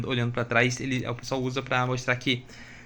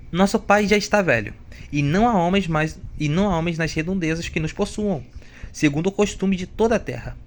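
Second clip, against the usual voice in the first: woman's voice; 5 semitones higher, 3 dB louder than usual. Acted. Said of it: "Sei lá fazer voz de mulher".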